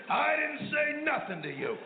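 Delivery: high, slow, innocent squeak; timid old husband denial. Retold or imitated. Old husband caught by his wife, high meek denial.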